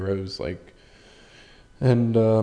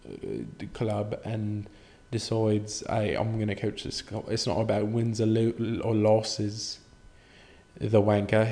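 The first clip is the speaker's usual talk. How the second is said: put-on British accent. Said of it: "Proper English, that's what this is".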